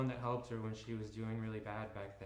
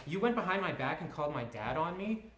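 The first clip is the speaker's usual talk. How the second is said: high, loud, hurt accusing voice; angry accusation; 6 semitones higher, 8 dB louder than usual. Acted. Ellie scolding Christian for calling her dad, angry. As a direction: accuse him of betrayal, loudly.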